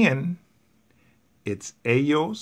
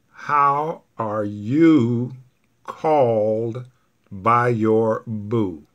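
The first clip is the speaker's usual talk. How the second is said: slow, word by word; much slower than usual. Shown as a demonstration. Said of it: "In Spanish".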